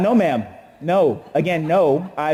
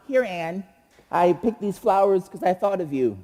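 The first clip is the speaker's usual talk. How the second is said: a timid mumbled squeak, softer; squeaky teen self; 3 dB quieter than usual. Retold or imitated. Shy teen boy giving his crush flowers, timid squeak. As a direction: mumble it like a scared freshman. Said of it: "squeaky voice".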